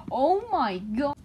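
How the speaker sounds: breathless whispered gasp of surprise; amazed whisper. Real, not acted. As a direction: whisper it, stunned by what you see. Surprised at something in the book.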